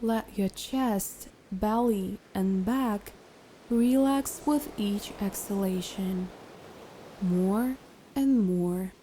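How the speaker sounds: calm, unhurried guided meditation voice. Acted. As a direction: guide a listener into relaxation, leaving long pauses.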